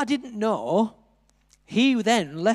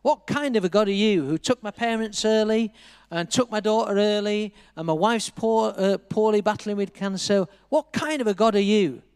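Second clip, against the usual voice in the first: mild mock shout at God; retold angry shouting; 3 semitones higher than usual. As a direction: challenge God with raised pitch, reined-in anger. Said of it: "I was shouting to God".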